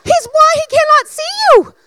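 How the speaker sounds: high, loud, pleading he is blind; half-shouting in disbelief at the crowd; exasperated outburst. Retold or imitated. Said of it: "I'm like".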